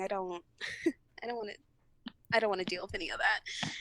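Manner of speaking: quick, half-laughing plea; pleading with the crying coworker while laughing; laughing through it. Retold or imitated.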